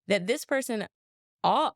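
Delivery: usual speaking voice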